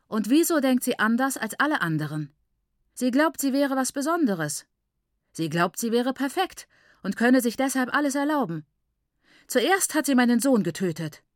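höhere, empörte Stimme; erbitterte Anklage. A narrator's reading. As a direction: sich in den Vorwurf hineinsteigern. Mutter klagt Maiguru erbittert an. (aufgebracht und anklagend)

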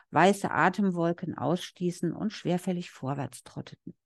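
calm, even literary reading voice; story reading. Acted. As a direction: read the novel passage steadily. Translator reads passage aloud.

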